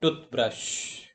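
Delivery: "Toothbrush" with TOOTH leading, BRUSH lighter; stress on first syllable. Shown as a demonstration. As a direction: put the weight on TOOTH in "Toothbrush". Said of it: "that is on the first syllable".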